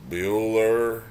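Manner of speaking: lightly imitated bored teacher roll call; Ben Stein monotone. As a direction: call the name like a dull teacher. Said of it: "has that monotone voice".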